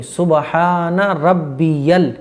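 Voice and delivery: slow "सुबहान रब्बियल" with long drawn vowels; correct pronunciation. Shown as a demonstration. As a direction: separate every syllable of "सुबहान रब्बियल". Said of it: "रब्बिल नहीं". ("सुबहान रब्बियल" ठहर-ठहर कर, खींचकर)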